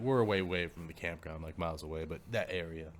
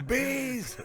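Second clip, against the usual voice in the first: laughing; 4 dB louder than usual. Real, not acted. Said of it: "laughing at his story".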